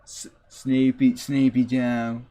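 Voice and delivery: lightly congested Trump voice; congested Trump impression. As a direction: say it like Trump with a stuffy nose. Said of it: "sounds like he has, uh, congestion".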